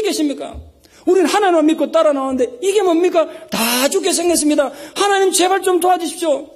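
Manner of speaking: high, pleading cry to God; Moses' desperate prayer. Retold or imitated. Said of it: "제가 모세라면 이렇게 기도했을 거란".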